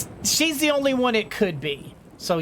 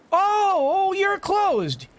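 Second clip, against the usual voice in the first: high, slow mock outrage at the closed shop; hammed-up frustration at a closed door; mock exasperation; 9 semitones higher, slower than usual. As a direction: groan it out like a personal betrayal.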